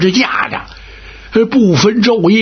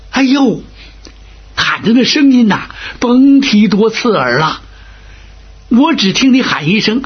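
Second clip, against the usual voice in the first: higher, worked-up complaint; agitated retelling; 5 semitones higher than usual. Acted. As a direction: pile on how awful that shriek was. Fei Zhong recounts the scream.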